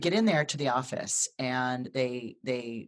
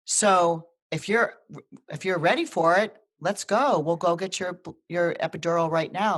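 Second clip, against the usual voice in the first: excited nurse; 3 semitones higher, 4 dB louder than usual. Retold or imitated. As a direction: deliver good news like it can't wait. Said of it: "She goes".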